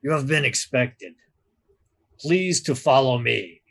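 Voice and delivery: lightly voiced thick Severosi accent; a hint of a thick Severosi accent, formal. Doorman greeting the crew in a light Severosi accent. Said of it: "says in a thick Severosi accent".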